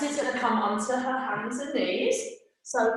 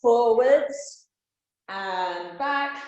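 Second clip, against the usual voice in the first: called out; 4 dB louder, much slower than usual. Real, not acted. Kids yoga, counting movements aloud.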